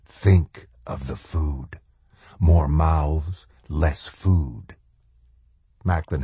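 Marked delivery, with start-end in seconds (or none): 0.0-4.8 slow, menacing drill sergeant; lightly voiced sinister inner voice; shadow soldier voice. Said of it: "like the hiss of a fuse on dynamite".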